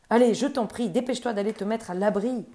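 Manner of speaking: imploring. Acted. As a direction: beg him to take shelter. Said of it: "implora-t-il".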